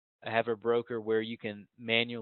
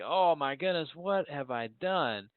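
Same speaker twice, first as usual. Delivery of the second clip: raised, drawn-out cry of despair; mild mock scream; 4 semitones higher, slower than usual. Trader pulling hair out after losing bullets, mock screaming. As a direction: play a mild, exaggerated wail of regret. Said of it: "screaming like".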